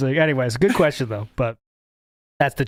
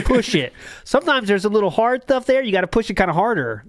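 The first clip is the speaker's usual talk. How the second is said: imitating Phil; 4 semitones higher than usual. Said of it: "in a similar manner to Phil".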